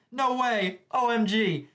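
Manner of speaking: high, excited fangirl squeal; a fan shrieking over Hawks. Retold or imitated. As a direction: gush like a starstruck fan. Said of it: "fangirls down below freaking out".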